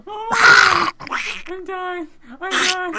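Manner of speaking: high-pitched, helpless laughter through the words; real laughing fit, nearly crying; dying laughing. Real, not acted. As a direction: gasp it out while cracking up.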